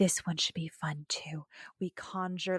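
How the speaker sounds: very hushed, breathy, soft and alluring. Discussing an actress's line readings, the speaker imitates her: breathy Allison Hannigan impression. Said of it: "conveys the lines is so breathy".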